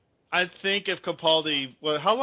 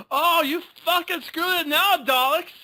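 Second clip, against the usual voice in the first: very high-pitched mock-Scottish rant; Scottish accent; 12 semitones higher than usual. Playing the new Doctor cursing the Daleks, hammed-up Scottish accent. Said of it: "I can't do a Scottish accent".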